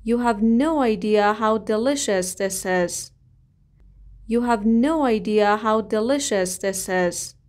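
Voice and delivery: drawn-out, careful phrase for repeating; slow model reading. Shown as a demonstration. Teacher modelling a sentence slowly for the class. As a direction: lay each word out slowly. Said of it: "بگین فکرشم نمیتونی بکنی".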